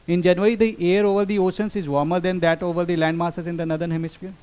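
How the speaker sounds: slow, careful reading of an exam statement; slow reading aloud. Shown as a demonstration. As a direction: read each word out slowly for the class. (धीमे-धीमे पढ़कर सुनाना)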